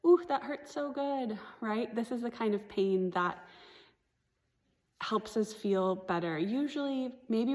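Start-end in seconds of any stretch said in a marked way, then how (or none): 0.0-1.4 higher-pitched mock groan of pleasure; imitated patient. Patient to therapist during massage, pleasurably sore. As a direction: play a patient relishing the ache. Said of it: "so many of my patients are like".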